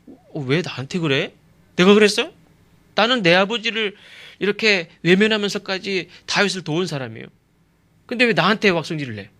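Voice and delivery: imitating an indignant, put-upon helper; acted huffy protest. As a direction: act out taking offence at being blamed. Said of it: "제가 아마 요나단이었으면 그때 확 삐졌을 거예요".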